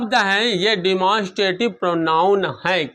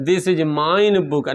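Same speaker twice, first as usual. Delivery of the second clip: very slow, word-by-word wrong sentence "this is mine book"; teacher slowly reads out the wrong form "this is mine book"; wrong example, slowly; 2 semitones lower, much slower than usual. Shown as a demonstration. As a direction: spell out the mistake "this is mine book" slowly, as a teacher showing an error. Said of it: "ना, गलत है".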